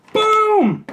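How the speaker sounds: high, loud, drawn-out boom; showy exclamation. Pretend. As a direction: belt it out like a big product reveal. Showy reveal of each candy.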